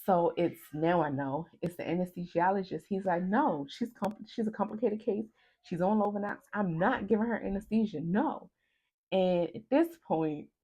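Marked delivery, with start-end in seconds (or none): 3.2-8.5 higher, louder firm refusal; retold doctor putting their foot down; arguing doctor. Anesthesiologist arguing with colleagues.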